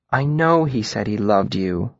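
gently consoling; gentle. Acted. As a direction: comfort a heartbroken girl slowly. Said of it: "her voice gentle".

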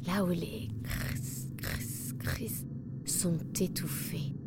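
slow, soft and hushed; hushed narration. A narrator's reading. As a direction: let the words go muffled and slow. Muffled sounds in deep forest.

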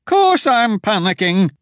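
high, loud, slow frightened reply; panicked retort. Acted. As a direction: fear spilling over. Wilmer admits his panic.

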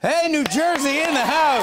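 high game-show host cheer; hyped-up shout-out. Pretend. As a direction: whoop up the crowd, pitched high. Host hyping up contestant's home state.

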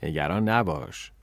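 cool and unruffled. A narrator's reading. Invisible friend reassures the worried girl, unruffled. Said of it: "که خونسرد گفت".

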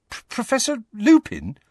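high, stunned disbelief; can't believe it's him; disbelieving. Acted. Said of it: "he said disbelievingly".

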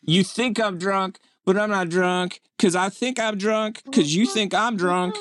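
high, slow tipsy slur; drunk voice. Pretend. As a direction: slur it like a denial. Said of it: "what every drunk says".

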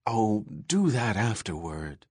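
gently coaxing, persuasive. Acted. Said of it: "she said coaxingly".

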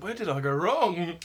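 high, loud disbelieving cry; exasperated. Retold or imitated. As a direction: wail it in disbelief. Acting out her own reaction.

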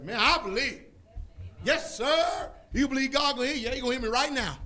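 put-on old-time believers answering in joy; fervent believers. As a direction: shout your faith like you mean it. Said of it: "That's how they talk".

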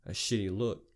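ordinary delivery

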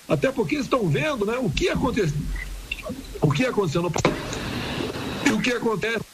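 speaking through hiccups; hiccuping between words. Real, not acted. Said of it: "eu tô com soluço já tem cinco dias". (com soluço)

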